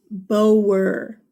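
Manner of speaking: Boer said slowly as "poh-er", two beats; careful "Boer" like "poh-er"; correct pronunciation. Shown as a demonstration. Teacher correcting class pronunciation, careful "Boer" as "poh-er". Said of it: "I hear people say Boer all the time".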